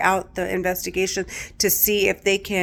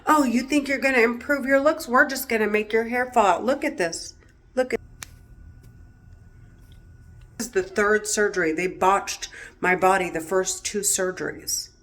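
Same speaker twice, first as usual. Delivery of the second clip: 1 mock taunting voices; 5 semitones higher than usual. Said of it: "It's like".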